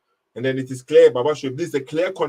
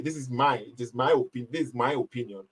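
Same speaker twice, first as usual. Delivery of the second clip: quoting Paul; 4 semitones lower, 6 dB quieter than usual. Retold or imitated. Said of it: "he say".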